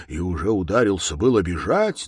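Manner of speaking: plain reading voice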